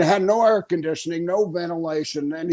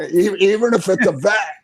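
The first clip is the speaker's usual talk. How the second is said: words spoken through a louder laugh; 4 semitones higher, 5 dB louder than usual. Real, not acted. Joking about becoming a vet, laughing. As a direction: keep laughing as you talk.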